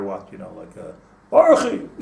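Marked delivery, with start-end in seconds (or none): 1.3-1.9 sudden high yelled name, half laughing; mock scream. Retelling the shul man who screamed everything, laughing mock yell. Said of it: "there's one guy used to scream all the time".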